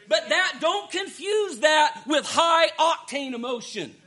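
emphatic, driving sermon delivery; earnest pulpit exhortation; forceful preaching. Real, not acted. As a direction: preach it, leaning hard on the key words.

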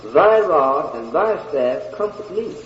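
slow, deliberate, continuous phrase. Shown as a demonstration. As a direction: stretch out each part of the verse.

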